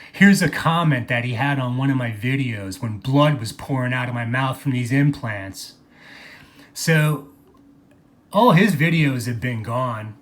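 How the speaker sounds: ordinary talk, nothing marked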